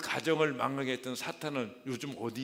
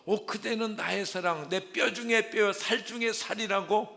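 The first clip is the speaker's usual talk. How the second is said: much higher, louder, rapturous recital; love poem; 8 semitones higher, 7 dB louder than usual. Acted. Adam reciting a love poem to his wife, rapturous and high. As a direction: sing out love to your wife. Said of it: "아름다운 사랑의 노래, 시를 읊었는데".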